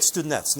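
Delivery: anglicised family version of the Ukrainian word, "studenettes"; family's anglicised pronunciation. Shown as a demonstration. Teacher gives the family's name for the dish, anglicised "studenettes". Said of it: "I don't know where that pronunciation".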